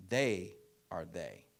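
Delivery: slow, deliberate, each word weighted; measured slow emphasis; slow emphatic declaration. Real, not acted. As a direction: lay down the principle slowly. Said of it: "emphatic slogan".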